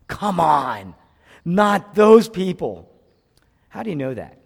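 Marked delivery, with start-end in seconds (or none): 0.1-2.9 indignant protest. Retold or imitated. Acted protest of Jonah to God.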